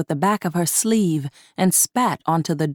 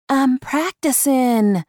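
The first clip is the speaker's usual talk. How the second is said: drawn-out reply; 7 semitones higher, slower than usual. A narrator's reading. Honeysuckle answers the boss.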